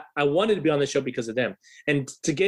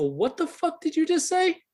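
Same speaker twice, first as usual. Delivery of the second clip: high, slow angry yell; a younger hothead losing his temper; furious challenge; 14 semitones higher than usual. Retold or imitated. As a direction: confront him, outraged and slow. Angry teen confronting rockstar.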